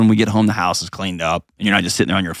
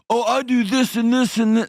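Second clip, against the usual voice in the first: mock defensiveness; 13 semitones higher than usual. Voicing the defensive partner.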